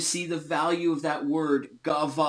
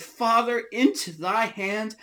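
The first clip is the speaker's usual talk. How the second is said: raised, higher reading of a cry; mildly loud, high scriptural cry; crying out, restrained; 4 semitones higher than usual. Acted. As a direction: lift the voice as if calling to a father. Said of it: "cried with a loud voice".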